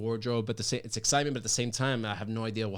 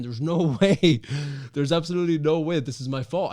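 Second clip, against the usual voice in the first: emphatic protest; 5 semitones higher, 8 dB louder than usual. Retold or imitated. Retelling his protest on the phone.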